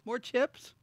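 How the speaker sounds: high, chirpy waitress checking in. Pretend. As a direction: play a cheery server checking tables. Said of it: "You're like the waitress or waiter".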